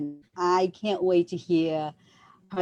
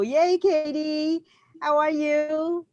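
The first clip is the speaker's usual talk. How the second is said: excited welcome; 9 semitones higher, slower than usual. Real, not acted. Greeting guest on show.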